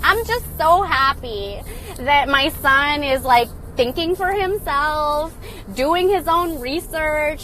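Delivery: slow, high airy voice; mock a spacey, proud hippie mom; a slow, light parody of the mom; dreamy hippie mom. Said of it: "she's just like".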